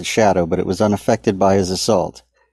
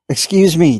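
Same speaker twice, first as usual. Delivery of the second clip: trying to sound calm; 8 semitones higher, 4 dB louder than usual. A narrator's reading. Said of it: "trying to sound calm and non-threatening".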